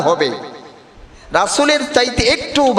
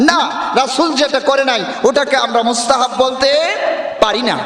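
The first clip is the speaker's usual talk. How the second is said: raised, shouting voice to reject the claim; forceful rebuttal; 3 semitones higher than usual. Real, not acted. Preacher shouting down a common claim, forceful. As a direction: cut the objection down hard.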